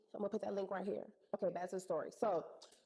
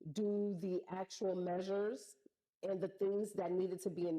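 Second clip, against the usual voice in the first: calm veiled warning. Retold or imitated. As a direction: say it calmly, every word weighed. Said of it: "I'm gonna say this calmly".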